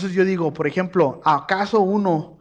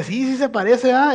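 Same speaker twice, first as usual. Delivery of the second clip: high, loud, giggly yes; laughing agreement; 8 semitones higher, 7 dB louder than usual. Retold or imitated. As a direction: agree with a burst of glee. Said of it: "Pero me dice". (la esposa admite riendo, aguda y fuerte)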